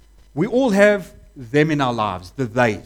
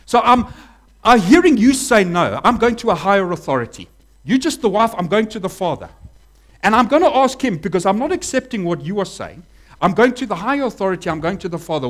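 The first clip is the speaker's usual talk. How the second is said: louder, pushy overruling tone; indignant relative; 2 semitones higher, 3 dB louder than usual. Retold or imitated. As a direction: brush the wife aside. Voicing relatives overruling the wife.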